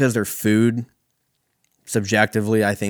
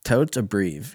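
put-on Valley Girl; slower than usual. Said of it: "Valley Girls would be like".

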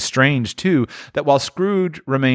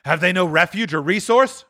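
higher pleading cry; pleading Scrooge; 9 semitones higher than usual. Acted. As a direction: plead for them. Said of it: "cried Scrooge".

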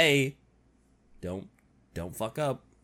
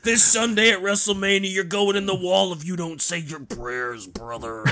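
wrestling promo voice. Retold or imitated. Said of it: "a wrestling promo".

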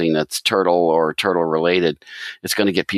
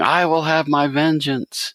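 high-pitched, drawn-out villain vow; hammed-up cartoon villain cry; mock villain yell; 9 semitones higher, slower than usual. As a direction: imitate a fleeing villain yelling, slowly, without real volume. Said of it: "he's running away and he's yelling".

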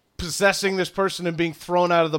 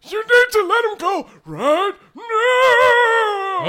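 furious high shout at the intruders; angry yell; 8 dB louder, much slower than usual. Acted. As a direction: scream the order at them. GM voices Crandon yelling.

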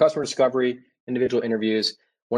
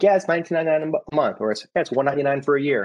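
quick, higher, upbeat sales patter; salesy pitch; 5 semitones higher, faster than usual. Retold or imitated. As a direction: rattle off the price like a booth salesman. Demoing pricing pitches to passersby.

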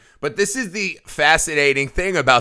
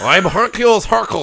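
garbled, higher-pitched accent impression; Tim Curry; 5 semitones higher than usual. Co-host mocking an unintelligible movie introduction, garbled accent impression. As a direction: mangle the introduction line in a put-on accent. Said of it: "tell me what the fuck he said".

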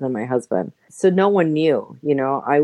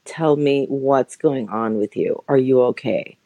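concerned friend; 2 semitones lower than usual. Retold or imitated. Health coach friend gently pressing her to open up. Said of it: "She was like".

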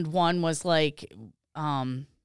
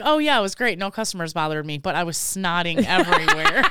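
imitating her; 4 dB louder than usual. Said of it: "You were like".

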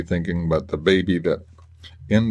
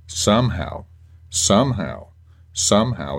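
each "somehow" slightly raised and falling; insistent repetition; 2 semitones higher than usual. Shown as a demonstration. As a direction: dwell on every "somehow". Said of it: "and I'll say it again".

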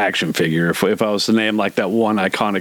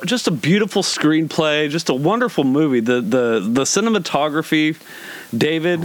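mock praise; 5 semitones higher than usual. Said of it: "you did it with a straight face".

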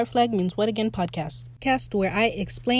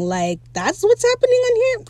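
clueless pirate; 13 semitones higher than usual. Retold or imitated. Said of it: "'cause he said".

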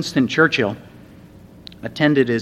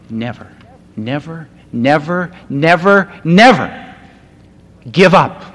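building to a shout; 3 semitones higher, 8 dB louder than usual. Retold or imitated. Preacher voicing Jesus urging believers never to quit, building to a shout.

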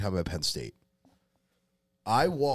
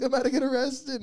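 rushed, high-pitched comic plea; mock panic; faster than usual. Drunk fan warning his friend about troopers, mock panic. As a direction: squeal it in hammed-up alarm.

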